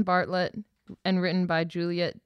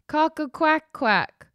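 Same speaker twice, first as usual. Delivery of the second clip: high, slow crow mixed with a quack; a drawn-out rooster call gone duck-like; silly crow; 8 semitones higher, 4 dB louder, slower than usual. Acted. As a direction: crow it proudly, all wrong. Cockerel tries crowing again.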